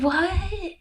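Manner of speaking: high, soft incredulous squeak; baffled disbelief. Retold or imitated. Woman reacting to her date's non-answer, baffled. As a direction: pitch it up in mock bafflement.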